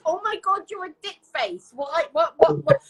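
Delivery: high, incredulous viewer's reaction; acted outrage. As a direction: act out baffled indignation, voice lifted. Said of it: "you're like".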